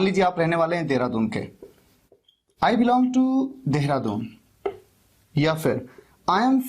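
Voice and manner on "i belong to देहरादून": slow model. Shown as a demonstration. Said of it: "दो तरीके".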